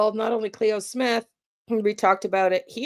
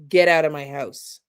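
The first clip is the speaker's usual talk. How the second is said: low downward command; 4 semitones lower, 3 dB louder than usual. Shown as a demonstration. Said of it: "There is no mistaking".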